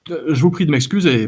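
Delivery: lightly voiced fussy minstrel, a bit fast; a touch of prissy indignation; prim protest. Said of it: "protestait-il". (protestation pincée et légère)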